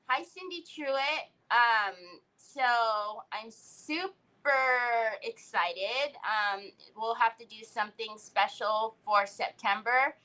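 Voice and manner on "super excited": slow, stretched-out words; drawn-out super excited. Real, not acted. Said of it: "I said super excited like that".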